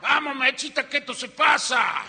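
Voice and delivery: urgent high-pitched holler; loud, hammed-up husband's call; tío Brito yelling. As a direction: shout to hurry her along from the bed. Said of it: "le gritaba de la cama".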